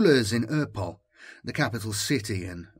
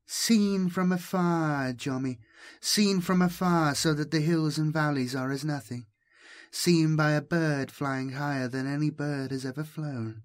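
caressing voice; 5 semitones higher than usual. Acted. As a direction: coax him gently, almost cooing. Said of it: "Was the languid voice male".

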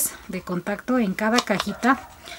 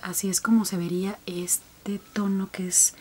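whisper; 4 semitones lower, 10 dB quieter than usual. Real, not acted. Close-up while fitting lens.

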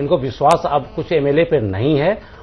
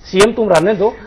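raised-pitch voicing of a dealmaker; higher, lightly acted persuasion; imagined political bargaining; 5 semitones higher than usual. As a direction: act out offering someone a deal, pitched up.

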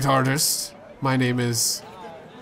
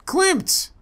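very high, bright call of the name; delighted greeting. Acted. Greeting the long-absent Klimt, overjoyed. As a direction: welcome an old friend back. Joyful greeting of returning friend.

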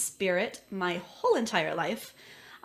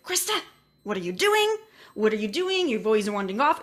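mom calling out; 3 semitones higher, 6 dB louder, faster than usual. Retold or imitated. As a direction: call out for your wandering kid.

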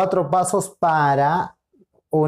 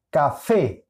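café split in two, fé stressed; stress on the last syllable. Shown as a demonstration. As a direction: show where café carries its force. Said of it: "aquí está la mayor intensidad de sonido". (café con la intensidad en fé)

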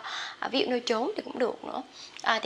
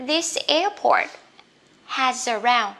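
emphatic modeling; 4 dB louder, slower than usual. Shown as a demonstration. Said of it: "teacher models phrase emphatically".

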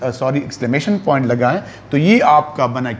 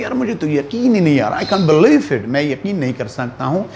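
quick, lively disbelief. Retold or imitated. Teacher acts out a student's amazement, quick and lively. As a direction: rush it like you can't believe it. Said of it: "आप कहते हैं".

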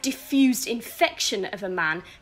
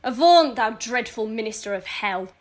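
commanding cry; 3 semitones lower than usual. Acted. Lady drives off the devil.

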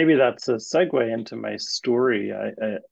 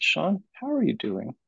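leaning in, asking it for real this time; mean the question, gently; pointed question; 6 semitones higher than usual. Retold or imitated. Supervisor leans in and asks her trainee again, sincerely. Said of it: "she leaned forward and she said".

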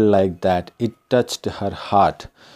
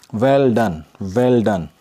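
encouraging; 3 dB louder, slower than usual. Retold or imitated. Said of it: "The teacher encouraged her".

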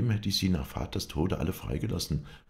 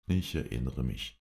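weary Ashley; 3 semitones lower than usual. Acted. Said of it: "sagte Ashley müde".

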